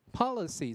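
POLICY stressed on POL; weight on the start of "policy", then falling; first-syllable stress. Shown as a demonstration. Teacher showing word stress, POL stressed in "policy". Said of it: "是第一个重音".

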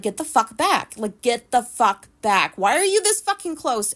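loud, rough get-back yell; imagined snap at a stranger crowding her; angry snapping. Retold or imitated. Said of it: "normally I would be like".

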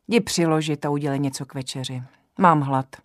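put-on bossy old woman giving orders; commanding. Old herbalist ordering Joza to cook supper, bossy command. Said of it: "velela babice".

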